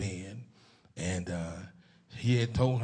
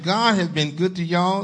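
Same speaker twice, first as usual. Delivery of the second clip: louder, higher, insistent preaching; emphatic repeat; 7 semitones higher, 10 dB louder than usual. Real, not acted. Pastor making sure Zion heard him, emphatic repeat. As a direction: drive it home to the congregation, pitched up. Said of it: "did y'all hear what I said".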